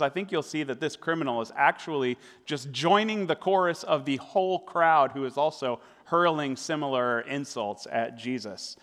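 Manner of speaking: ordinary talk, nothing marked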